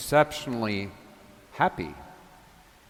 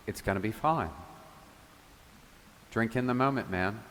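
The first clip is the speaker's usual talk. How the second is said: calm reassurance; 5 dB quieter than usual. Retold or imitated. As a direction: ease him down like a calming friend. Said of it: "as if the Lord was saying".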